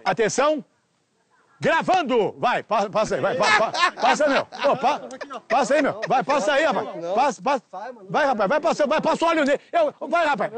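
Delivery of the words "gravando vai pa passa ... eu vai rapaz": higher, pushy director urging the actor on; mock frantic urging. Director pressing the hesitant actor to start, higher and urgent. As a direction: hurry him, half laughing, higher pitched.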